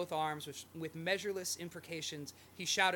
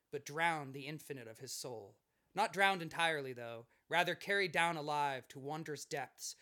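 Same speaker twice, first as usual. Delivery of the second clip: dramatic reading. Acted. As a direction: read it like a novel passage. Reads literary quote aloud.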